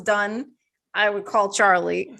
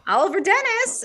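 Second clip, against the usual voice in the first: pet voice; 11 semitones higher than usual. Retold or imitated. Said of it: "I'll go".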